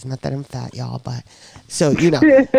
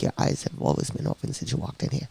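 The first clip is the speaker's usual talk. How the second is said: imitating nurse softly; 8 dB quieter, faster than usual. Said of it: "She was like".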